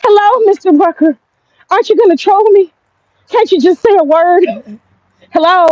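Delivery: high, pleading mock girly voice; mocking whiny voice. Mocking a streamer begging Mister Rucker for attention, high and whiny. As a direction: whine it out like a needy fan. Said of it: "She's like".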